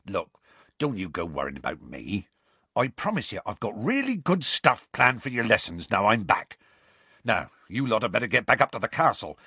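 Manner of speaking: lightly voiced rustic reassurance; mild, easy-going gamekeeper; reassuring gamekeeper. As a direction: wave off the worry and send them home. Voices Hagrid.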